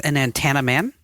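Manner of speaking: "antenna" with an accented, flattened middle A; New York accent. Real, not acted. Host announcing an interview guest, slight New York accent. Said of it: "That was my New York accent".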